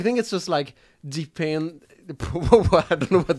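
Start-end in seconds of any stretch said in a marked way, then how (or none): 0.0-1.9 slow, slipping into a Texan twang on "depend"; Texas slip. Real, not acted. Bilingual host accidentally sounding Texan while explaining her accent. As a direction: let "depend" drawl out a touch Texan. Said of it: "That was Texas".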